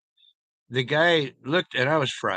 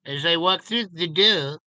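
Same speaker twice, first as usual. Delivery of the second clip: Clouseau French accent; 3 semitones higher than usual. Shown as a demonstration. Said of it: "talk a little bit Clouseau".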